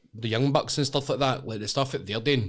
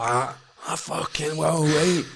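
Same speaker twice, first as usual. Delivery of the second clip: gruff challenge; 6 semitones higher, slower than usual. Retold or imitated. Big fighter accepting a challenge.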